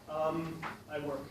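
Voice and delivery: drawn-out um, then a simple answer; habitual um. Shown as a demonstration. Teacher mimics a student who needn't say um, hesitant. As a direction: needless hesitation before answering. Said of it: "You shouldn't have to say um".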